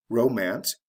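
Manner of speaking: "romance" stressed on RO; "romance" modelled with stressed first syllable. Shown as a demonstration. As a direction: put the beat on RO in "romance". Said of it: "from the first syllable".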